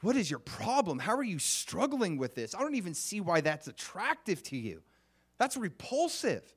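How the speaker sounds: looking down your nose, mocking; arrogant superior. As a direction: sneer down at them in a hammed-up way. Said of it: "superior attitude like".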